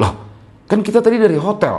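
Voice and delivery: mock, very high, snippy, curt snap. Narrating the woman's answer to Budi's small talk: retelling a curt reply. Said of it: "Jawab si cewek tambah ketus".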